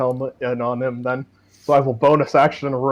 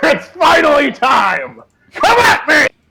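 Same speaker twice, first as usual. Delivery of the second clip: high, swooping shouted voice; 13 semitones higher, 7 dB louder than usual. In a game, a player's character grins and shouts at the enemy: grinning shout. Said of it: "grin and shout at it".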